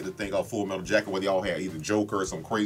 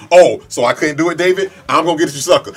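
high, loud mock-quarrel comeback; worked-up playful bellow; combative shouting; 7 semitones higher, 13 dB louder than usual. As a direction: yell it as a hammed-up challenge.

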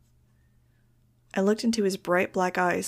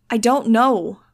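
loud, frantic answer; shouted; 3 semitones higher, 9 dB louder, slower than usual. A narrator's reading. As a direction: shout it back over the commotion. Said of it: "I shouted".

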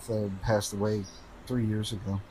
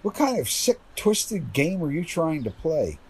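sharp, high accusing question; angry confrontation; 4 semitones higher than usual. Acted. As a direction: demand an answer, furious. Confronts the girl in park.

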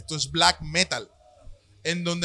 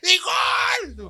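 shouted football announcer "gol" call; goal commentary; 13 semitones higher, 5 dB louder than usual. Retold or imitated. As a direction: yell the goal like a Colombian commentator. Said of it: "como narrador de fútbol aquí colombiano".

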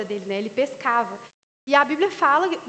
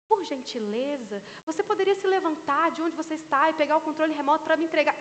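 a hint of prim politeness mocking the in-laws; overly polite request. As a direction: put on exaggerated courtesy. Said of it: "a família do Renato é assim".

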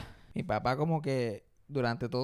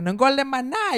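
mock scolding grandpa; 9 semitones higher, 8 dB louder than usual.

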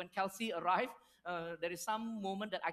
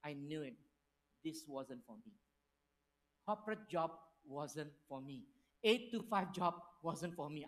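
glum inner voice; 5 semitones lower than usual. Retold or imitated. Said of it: "I was like".

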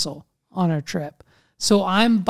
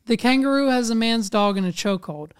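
quick run through the whole sentence; fast, businesslike recap; brisk restatement; 2 semitones higher, faster than usual. Real, not acted. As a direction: rattle it off as a setup. Same words again, briskly.

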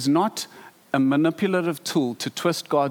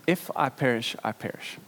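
hushed repeat; 2 semitones lower, 5 dB quieter than usual. Acted. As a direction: repeat it softer, fading to a whisper on the last words. Esther's resolve repeated softly.

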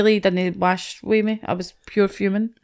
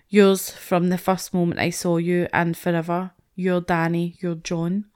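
reading aloud; 3 semitones lower, 3 dB quieter than usual. Retold or imitated. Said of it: "I'll read it out to you".

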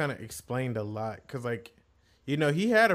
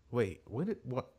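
confused; 9 dB quieter than usual. Retold or imitated. Retells bewildered reaction to own tears.

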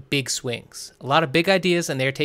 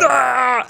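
frustrated yelp; 9 semitones higher, 7 dB louder than usual. Real, not acted. Frustrated at loud leaf blower.

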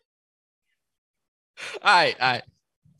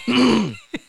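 throat clearing; 11 semitones higher, 9 dB louder than usual. Real, not acted. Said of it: "I'm gonna do my news reporter".

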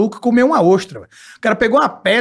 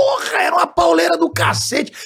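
higher outburst, almost yelling; shouting; 8 semitones higher than usual. Real, not acted. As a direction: blow up the sweet picture. Busting the cozy kitchen myth.

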